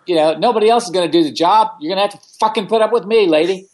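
fast, defiant rant at the lady; heated defiance. Retold or imitated. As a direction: rattle it off, fired up. Angry retort continues.

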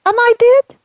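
high, far-off wailing ghost voice, forlorn; ghost of Saint Valentine. Acted. Saint Valentine's ghost answering the host, in a high wailing voice. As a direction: wail it like a lost saint calling from afar.

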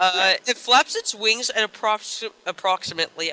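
talking through a stuffy nose; stuffed-up nose, words thick; blocked nose. Real, not acted. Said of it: "my nose is making me talk weird".

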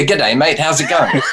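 light New Zealand accent greeting; a casual Kiwi hello, lightly done; asked to greet like a New Zealander, mild New Zealand accent. Shown as a demonstration. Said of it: "say hello in New Zealandic".

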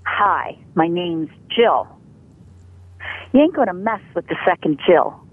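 low, firm, unshakeable Jill; tough, don't-mess-with-me. Shown as a demonstration. Voice coach demos a voice that repels abusers, firm and tough. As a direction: make them back off with the voice. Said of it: "a voice that boots an abuser in the butt".

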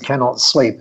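light imitation of a Japanese accent; Japanese-accented English, gently done. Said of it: "in this lovely Japanese accent".

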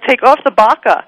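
put-on burqa said as "baka", New York accent, no r; joking New York accent, burqa dropped r. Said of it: "I was using my New York accent".

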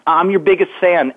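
put-on high little-boy voice, "Herbie Bucket" lisped; lisping child. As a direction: gush to your hero like a six-year-old. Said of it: "I had a lisp".

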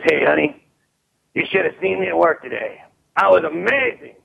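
lightly hammed-up proud man home from work; bragging husband. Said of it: "comes home and says".

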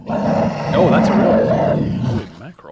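breathy stunned holy mackerel; mock astonishment. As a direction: gasp it out, amazed. Mock shock at the bear.

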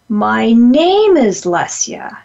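slow, with "name" rising then falling; stress on name. Shown as a demonstration. Teacher moving stress onto "name", slowly. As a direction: linger and hit "name" in "My name is Lesia". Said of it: "you put emphasis on".

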